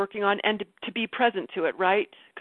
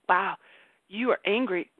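gently name the feeling, unhurried; calm noticing. Retold or imitated. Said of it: "just be like".

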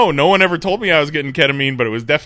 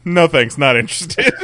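curt dismissive buyer; 3 semitones higher, 5 dB louder than usual. Retold or imitated. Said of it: "the first person would say".

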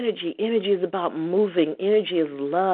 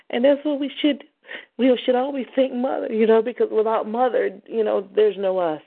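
much higher, rising with fervour; fervent praise; 5 semitones higher than usual. Real, not acted. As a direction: lift the voice in devotion to Mother. Host praising Mother fervently.

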